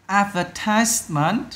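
"Advertisement" drawn out, stress on TISE; third-syllable stress. Shown as a demonstration. Teacher correcting the answer for pupils, third-syllable stress. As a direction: say "Advertisement" slowly, leaning on TISE. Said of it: "âm ba luôn".

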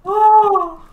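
high amused laugh into the words. Real, not acted. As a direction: laugh at the unlucky death. Teammate died unfortunately.

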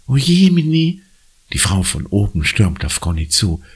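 high, fretful woman's voice; distressed woman. Acted. Woman rushes to Conny, fretting. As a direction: fuss over the girl.

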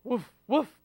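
lightly voiced woofs; playful dog bark. Child greeting a pizza dog, with light pretend barks. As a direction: give two short pretend barks. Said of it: "What if it's a pizza dog?".

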